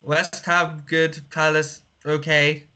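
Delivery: flat robotic monotone. Acted. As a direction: talk like a deadpan robot. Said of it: "stop this stupid, like, robotic voice".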